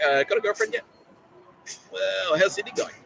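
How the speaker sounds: high-pitched mocking parrot voice; same pitch. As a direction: drag out the nosy questions in a high, samey pitch. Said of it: "the same wording with the same pitch".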